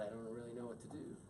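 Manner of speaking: wife echoing her husband's words, softly; tender wife echo. Shown as a demonstration. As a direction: say "I don't really know what to do" gently back to him. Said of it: "And then she could go".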